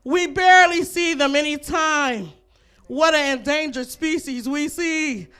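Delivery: hammed-up nature documentary host, slow and drawn out; slow, lightly voiced wildlife-show narration; Steve Irwin. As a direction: loosely imitate an excited wildlife presenter spotting animals. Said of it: "That was my Steve Irwin impression".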